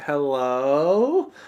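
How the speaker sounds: long, drawn-out, creepy "hello" with stretched O. Retelling a nervous greeting, imitating own drawn-out hello. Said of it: "it's literally like that tone".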